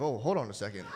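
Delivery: a hint of low, wary character voice; lightly voiced sperm character. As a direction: drop your pitch as if pausing in doubt. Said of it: "If your sperm is in your dad's ass, it'd be like".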